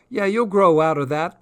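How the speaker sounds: lightly voiced young Cockney lad; chatty street boy, a touch hoarse. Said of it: "the boy commented".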